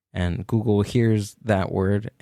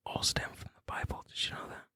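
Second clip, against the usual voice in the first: fast breathy whisper; 16 dB quieter, faster than usual. Real, not acted. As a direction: let it out as a secret whisper. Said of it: "No, don't whisper".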